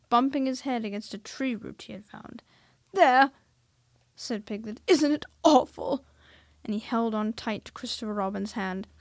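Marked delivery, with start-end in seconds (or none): 2.9-6.0 high, loud fearful exclaim; frightened. A narrator's reading. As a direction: point at it in fright. Frightened Piglet by the trap.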